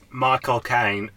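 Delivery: slow, put-on Cockney accent; Michael Caine. Shown as a demonstration. Podcaster showing the key to an impression, mock Cockney. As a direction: stretch the name in imitated Cockney. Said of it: "all I need to say is Michael".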